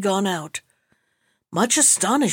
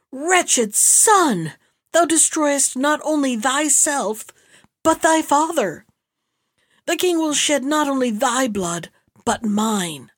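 raised-pitch, declaiming outrage; anguished exclamation; 4 semitones higher, slower than usual. A narrator's reading. Enraged father laments his son's ruinous deed, exclaiming. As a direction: cry out against the wayward son in despair. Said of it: "he exclaimed".

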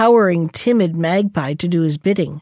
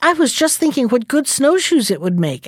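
absent voice; 5 semitones higher than usual. Acted. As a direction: say it as if barely thinking. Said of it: "answered the fox in an absent voice".

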